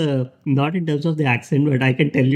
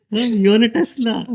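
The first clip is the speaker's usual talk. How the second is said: high, lightly mocking Californian question; California small talk; 8 semitones higher than usual. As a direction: lightly mimic an impressed Californian, pitched way up.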